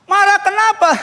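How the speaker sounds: high, loud mock-surprised question; retold questioning. Pastor presses the man about his wife, high and loud. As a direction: pounce on it like an exaggerated interrogation.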